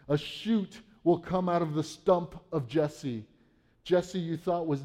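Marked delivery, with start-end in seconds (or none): 0.1-3.3 slow each word down for weight; a preacher lingering over the prophecy, slowly; slow, weighty reading. Shown as a demonstration. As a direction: read it slowly so every word lands. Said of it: "we have to pause real, real quick".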